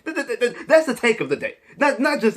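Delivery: laughing through the words. Real, not acted. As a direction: chuckle as you say it. Laughing at own take.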